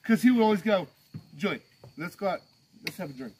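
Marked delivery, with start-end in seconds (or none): 1.4-3.3 low, quiet coaxing; soft invitation. Retold or imitated. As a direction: murmur the invitation. Boss voiced softly.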